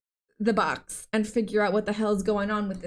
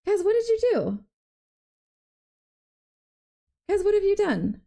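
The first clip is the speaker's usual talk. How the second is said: mock outrage; 9 semitones higher than usual.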